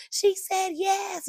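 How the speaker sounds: high, slow, jubilant shout of "She said yes"; excited shout. Retold or imitated. Fiance telling the beach she said yes, jubilant high shout. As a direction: announce it to the whole beach, drawn out.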